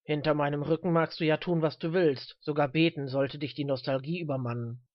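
lightly voiced old man, scolding; low, grudging rebuke; stern old man. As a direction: scold him with a hint of age.

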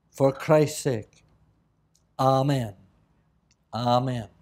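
solemn, measured prayer in short phrases; public prayer. Real, not acted. Preacher asking God to bless the word tonight, solemn public prayer. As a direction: pray aloud earnestly, pausing between petitions.

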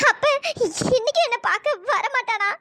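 a tearful, heartbroken question; asking through tears; crying. Acted. Girl waiting for Krishnan. (அழுதபடி கேள்வி)

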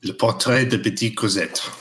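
French title repeated with French sounds; French accent. Shown as a demonstration. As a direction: say it as the French would. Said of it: "How was the French accent there".

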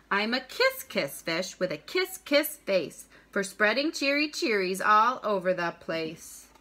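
bouncy picture-book rhyme, punching each pout; reading to children. A narrator's reading. Teacher reads a rhyming fish book to students, read-aloud lilt. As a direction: read it aloud with a lilting beat.

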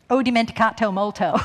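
Italian spoken with a Southern US accent. Shown as a demonstration. Speaker shows off Italian learned in the South, Southern accent. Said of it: "in Italian with the Southern accent".

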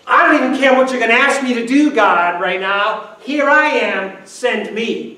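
eager Isaiah. Acted. Isaiah answering God's call, loud and eager. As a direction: thrown wide open, hold nothing back. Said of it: "No wonder why he would say".

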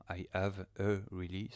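"I have a really" with each word set apart; separated words. Shown as a demonstration. YouTuber showing what the software misheard, "I have a really" separated. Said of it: "c'est vraiment mon accent".

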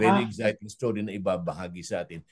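upbeat radio host teaser for next week; host plugging next Saturday's guest, announcer style; radio announcement. Acted. Host announces next week's episode.

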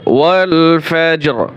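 ওয়াল ফাজর with the final র clearly rolled; clear r sound. Shown as a demonstration. Teacher showing the র at the end of ফাজর. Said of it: "র উচ্চারণ করতে হবে".

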